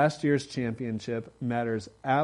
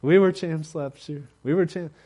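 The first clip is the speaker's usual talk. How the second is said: boastful champion; 5 semitones higher, 6 dB louder than usual. Retold or imitated. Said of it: "You can't say".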